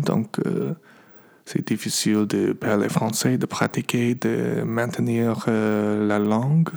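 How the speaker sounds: rusty American French accent; careful English-speaker French; foreign accent in french. Real, not acted. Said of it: "mon français, c'est, euh, un peu, euh, merdique".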